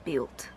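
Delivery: "Built" mimicked with a tense "ee", like "beelt"; too-high vowel. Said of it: "the vowel's too high".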